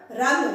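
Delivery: रन with a plain dental न, like the cricket run; the contrast word, dental n; teacher contrasting it with रण. Shown as a demonstration. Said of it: "रन हुआ तो क्या हुआ".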